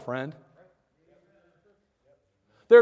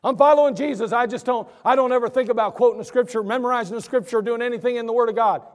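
higher, louder mocking parody; mock excuse; 3 semitones higher, 4 dB louder than usual. Preacher parodying a believer who never reads scripture, mocking. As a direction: throw the excuse back at them. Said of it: "repeats the mocked excuse".

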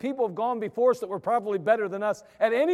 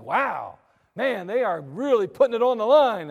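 excited; 4 dB louder than usual. Retold or imitated. Excited quote in sermon.

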